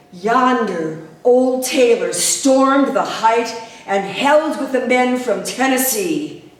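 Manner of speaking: poem recitation. Acted. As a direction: recite it with rising intensity.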